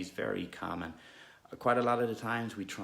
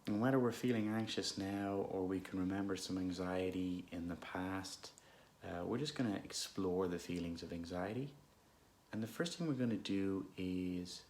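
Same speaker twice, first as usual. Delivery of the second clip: unhurried, calm meditation guidance with long pauses; guided meditation; 5 dB quieter than usual. Real, not acted. Guide leading listeners through an anxious moment, calm meditation voice. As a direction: gently lead listeners inward, leaving space between phrases.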